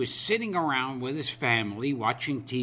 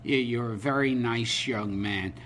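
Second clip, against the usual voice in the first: lightly voiced old man, halting start; hint of a frail old comedian; Joe Besser, old and weak; 2 semitones lower than usual. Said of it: "he's really old and weak".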